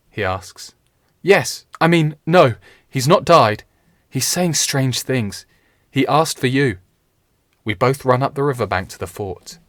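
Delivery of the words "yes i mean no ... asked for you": breathless, high, loud and flustered; out of breath. Acted. Page panting out the news to Richard, breathless and high. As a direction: gasp it out after running. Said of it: "I'm panting, out of breath".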